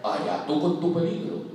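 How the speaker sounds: vaca desdeñosa. Acted. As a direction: shrug it off like a big cow. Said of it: "La vaca le dijo". (la vaca despreciando al ratón, voz muy grave)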